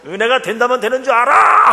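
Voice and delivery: high, loud retold shout; retold yell at his wife, high and loud. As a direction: yell it back at her. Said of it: "제가 막 소리를 질렀어요".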